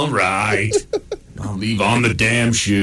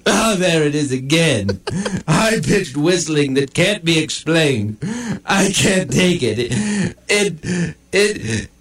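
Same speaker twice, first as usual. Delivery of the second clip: high-pitched, mounting panic; panicked; 6 semitones higher than usual. Acted. Dog hearing unexplained whistling, panicked. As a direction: stammer as the noise drives you mad.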